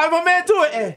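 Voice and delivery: high-pitched mock Canadian; Canadian impression. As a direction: put on a playful Canadian accent. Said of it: "you're gonna be like, Canadian".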